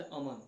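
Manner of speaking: अमन stretched as when calling a name; extra-long calling vowel. Shown as a demonstration. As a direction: draw out अमन to call someone. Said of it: "अमन बोलोगे तो कितना ज़्यादा समय लगेगा".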